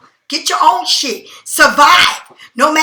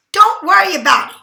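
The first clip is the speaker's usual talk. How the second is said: nasty; 4 semitones higher than usual. Retold or imitated. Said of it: "said it in a very nasty way".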